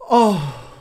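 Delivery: exaggerated aroused groan at a film star; mock lustful moan. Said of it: "making perverted noises".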